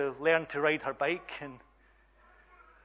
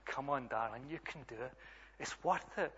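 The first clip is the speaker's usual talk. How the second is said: reassuring dad, lightly acted; encouraging father. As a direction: gently urge a child to keep going. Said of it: "And I'm encouraging her".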